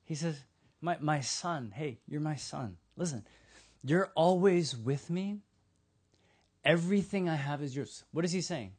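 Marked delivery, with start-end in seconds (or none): 0.8-8.0 patient, loving. Acted. Father answers his resentful older son, patient and loving. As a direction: reassure gently, with unhurried pauses. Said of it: "the father is so patient".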